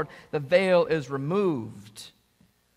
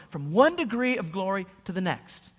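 usual speaking voice

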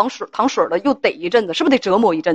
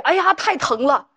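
higher, drawn-out mock moan; mock "ouch" wail, pitched up and stretched; crying out in pain; 6 semitones higher than usual. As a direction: act out a complaint about how much it hurts. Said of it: "你嚷嚷两句".

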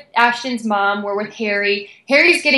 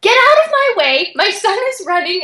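retold pushy demand; 9 semitones higher than usual. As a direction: bark it while shoving past. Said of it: "she's like".

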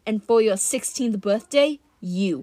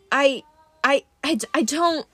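dazed stammer; 4 semitones higher than usual. Acted. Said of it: "dazed and uncertain".

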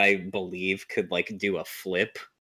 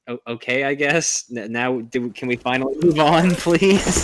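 impatient mock Peter; 5 semitones higher, 6 dB louder than usual. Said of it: "which is like".

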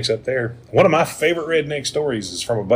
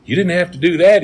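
high, louder baffled cop; surprised disbelief, pitched up; dumbfounded; 7 semitones higher, 4 dB louder than usual. Retold or imitated. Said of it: "the cop looked at it dumbfounded".

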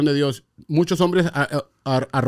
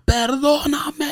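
retold plea; 11 semitones higher, much slower than usual. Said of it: "Nomás empiezo a gritar".

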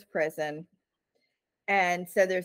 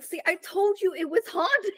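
high, triumphant told-you-so; 11 semitones higher than usual. Retold or imitated. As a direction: gloat like you were right all along. Valerie vindicated about the ghost.

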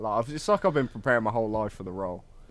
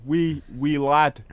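slow, higher mock Scottish; Scottish accent; 5 semitones higher, 7 dB louder, much slower than usual. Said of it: "would they say "we".

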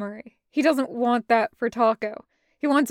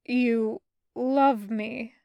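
bewildered; much slower than usual. Acted. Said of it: "sounding bewildered".

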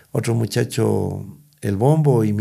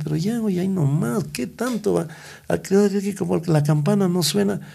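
exasperated mock complaint; 7 semitones higher than usual. Mocking the fussy son.

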